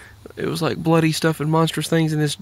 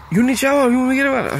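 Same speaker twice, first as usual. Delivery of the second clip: quoted man's voice; 9 semitones higher, faster than usual. Retold or imitated. Retelling a stranger's offer.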